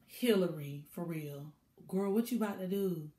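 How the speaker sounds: low, soft and dropping; hushed disbelief. Retold or imitated. Viewer warning Hillary before the proposal, hushed disbelief. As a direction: ask her quietly, half afraid.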